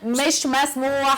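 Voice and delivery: drawn-out, deliberate no; slow firm refusal. Acted. Host refusing the guest, slow and firm. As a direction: stretch each word, refusing flatly.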